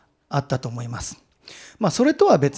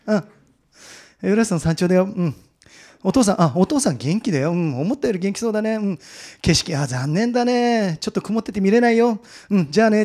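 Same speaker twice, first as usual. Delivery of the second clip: acted deflated phone call, far less excited; テンションの低い報告; 5 semitones higher than usual. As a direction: go through the summit news as a routine chore. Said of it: "その時になったらテンションが低くなる". (気の抜けた電話報告)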